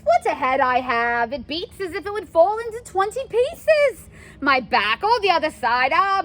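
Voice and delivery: loud, groaning complaints; milk every ache. Acted. Nurse moaning about head and back.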